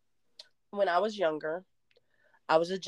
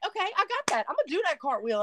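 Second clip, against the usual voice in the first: overconfident self-talk; 10 semitones higher, faster than usual. Retold or imitated. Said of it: "I'm like".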